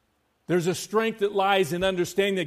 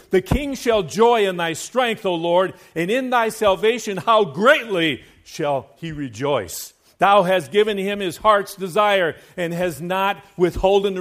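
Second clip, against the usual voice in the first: excited psalm reading; 3 semitones higher, 7 dB louder than usual. Acted. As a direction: proclaim it like a king's victory song. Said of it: "Isn't David just excited here?".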